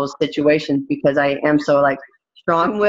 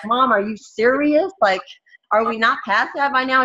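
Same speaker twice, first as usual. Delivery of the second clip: exasperated disbelief; 7 semitones higher than usual. Retold or imitated. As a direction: drag it out, fed up and incredulous. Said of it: "And I'll be like".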